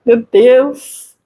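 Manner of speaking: mock-sad sigh of "my God"; understated, put-on dismay; feigned sadness. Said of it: "fiquei me fazendo de triste".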